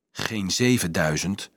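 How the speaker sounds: low, slow, soft murmur; mumbling. A narrator's reading. Dolf working out a plan, mumbling. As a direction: mutter it, thinking aloud. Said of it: "mompelde Dolf".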